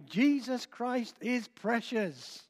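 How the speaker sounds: put-on an old preacher insisting, unhurried; old preacher, slow and emphatic. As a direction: slowly stress each word of Jesus Christ is precious. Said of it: "the great old preacher said again".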